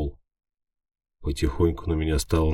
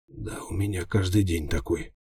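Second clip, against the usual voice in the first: groaning; 4 dB quieter than usual. A narrator's reading. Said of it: "простонал я".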